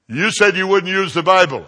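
mock accusation. Organizer's retold complaint.

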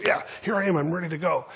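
mildly acted can't-wait excitement; eager kid. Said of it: "he just can't contain himself".

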